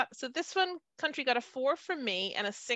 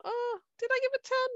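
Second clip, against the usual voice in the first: high, fluttery second-guessing; flustered self-doubt; 9 semitones higher, faster than usual. Retold or imitated. To her co-hosts, mocking her own doubt, high and flustered. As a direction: pitch way up, panicking over her own vote. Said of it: "I'm like".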